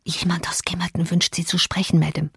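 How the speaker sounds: timid whispered message. A narrator's reading. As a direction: whisper it, nervous and hesitant. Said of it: "und so flüsterte ich".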